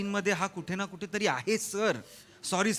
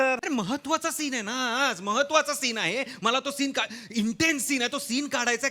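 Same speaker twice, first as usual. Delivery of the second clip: exasperated insistence; 4 semitones higher than usual. Acted. Director stresses urgency to crew.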